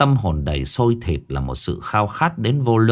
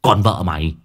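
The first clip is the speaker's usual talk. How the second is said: booming; 5 semitones higher than usual. A narrator's reading. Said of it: "nó vẫn cứ nói oang oang". (giọng oang oang hớt hải)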